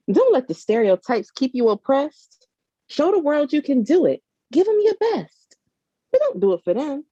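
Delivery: spoken-word poem, rhythmic and rising; poem recitation. Acted. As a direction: perform it like a slam poet building hope.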